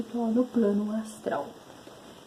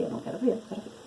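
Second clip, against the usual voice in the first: scared whisper; 4 dB quieter, much faster than usual. Retold or imitated. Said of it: "Eu tava morrendo de medo".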